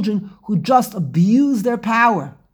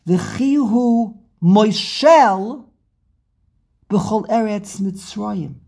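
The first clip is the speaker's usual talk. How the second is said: V'chihu Moshel drawn out slow and loud; a solemn, weighty verse reading; slow emphatic quote; 4 dB louder, much slower than usual. Acted. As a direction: lay out each word slowly. Quoting verse slowly.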